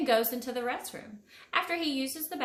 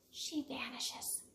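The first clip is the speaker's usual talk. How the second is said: soft vanish; 11 dB quieter, slower than usual. A narrator's reading. Fairy disappears, soft fade.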